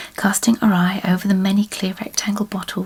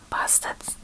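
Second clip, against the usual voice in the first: cursed under the breath, much softer; muttered curse; 11 dB quieter than usual. A narrator's reading. Wife grumbling about airport staff who took her tray, muttered. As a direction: drop it right down to a mutter.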